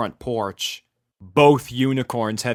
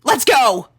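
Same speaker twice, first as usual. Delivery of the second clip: rallying call; 12 semitones higher, 7 dB louder than usual. A narrator's reading. Rainbow rallying.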